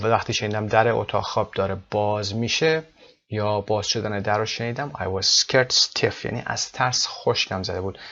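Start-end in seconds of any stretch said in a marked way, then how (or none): 4.9-6.2 very slow, stress on scared; slow repeat. Shown as a demonstration. Teacher repeating the phrase to students, slowly and clearly. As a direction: spell it out slowly for the class.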